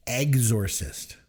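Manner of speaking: slow "exorcist" opening on a plain "eggs"; own odd pronunciation. Shown as a demonstration. Admitting a criticized pronunciation to co-host, "exorcist" drawn out with "eggs". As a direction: say "exorcist" slowly, starting like "eggs". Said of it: "apparently I pronounce it".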